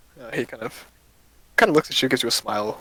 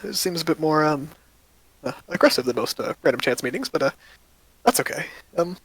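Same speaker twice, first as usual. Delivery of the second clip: lightly voiced cheerful shopkeeper, a bit faster at the end; friendly shopkeeper; 4 semitones higher than usual. Shopkeeper greeting two adventurers, lightly voiced and friendly. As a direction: greet new customers brightly.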